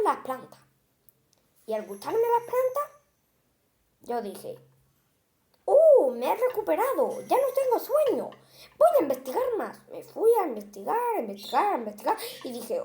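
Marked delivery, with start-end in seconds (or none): 5.6-9.8 refreshed. Acted. Monster refreshed after eating plants.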